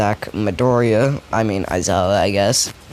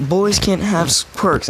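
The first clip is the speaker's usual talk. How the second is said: screamed out; 8 semitones higher than usual. Retold or imitated. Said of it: "one of them scream out".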